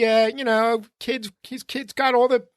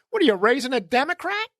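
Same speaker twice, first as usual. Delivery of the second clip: raised, shouted jab at the mother; retold shout; 3 semitones higher than usual. Man shouts a jab at a shoplifting kid's mother. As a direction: yell a mocking dig across the store. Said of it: "I went into his mode".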